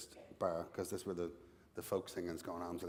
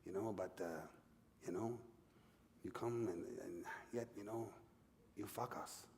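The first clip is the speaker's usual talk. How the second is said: halting mock French accent, growing softer; bad French accent; 5 dB quieter than usual. French Quebecer explaining his grievance to Sean, mock French accent. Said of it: "bad attempt at a French accent".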